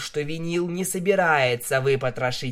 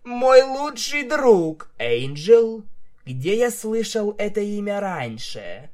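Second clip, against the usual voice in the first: tearful wail; 7 semitones higher, 4 dB louder than usual. A narrator's reading. Stallion weeping over his rabbit.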